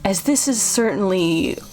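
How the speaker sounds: lightly voiced odd host, slow and halting; a hint of a sinister eccentric; creepy innkeeper. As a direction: explain it away with drawn-out pauses. Voices Chuck explaining the puddle.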